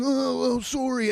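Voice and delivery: imitating a half-asleep woman's mumble; groggy apology. Woman scolded before rolling over to snore, groggy mumble.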